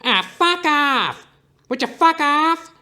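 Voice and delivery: very high, loud put-on shout, drawn out; cranky ex-boyfriend bellowing fuck off; mother's ex-boyfriend. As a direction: shoo people off in a squeaky angry voice. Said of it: "I sound like my mother's ex-boyfriend".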